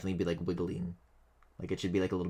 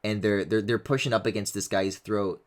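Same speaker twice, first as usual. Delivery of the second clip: usual speaking voice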